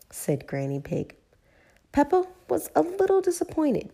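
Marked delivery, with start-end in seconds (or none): 1.9-3.9 disappointed. A narrator's reading. Narrator sympathizing.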